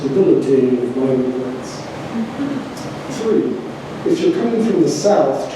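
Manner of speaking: measured, declaimed poetry reading with pauses between items; poem reading. Acted. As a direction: read it out like a numbered poem to an audience. Reads own poem aloud to audience.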